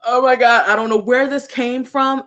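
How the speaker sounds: imitating her own crying. Recalling crying to a friend mid-conversation, mild mock sobbing. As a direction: replay the sob-choked words lightly, half-laughing at herself. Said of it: "bawling, blubbering, bawling, just".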